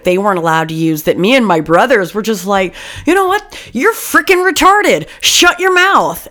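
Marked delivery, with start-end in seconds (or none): 3.1-6.3 put-on high, taunting kid voice; mock bratty kid. Cousin mocking strict relatives, high taunting voice. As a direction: sneer it like a cheeky kid.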